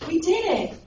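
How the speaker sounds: high, loud cry of triumph; excited boy's shout; triumphant call. Retold or imitated. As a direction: call it out from a mountaintop. Boy on mountaintop calls out.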